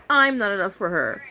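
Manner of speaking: lightly voiced mopey husband; a hint of a sad husband; lamenting husband. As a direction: moan it in his lightly voiced sorrow. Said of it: "he's lamenting".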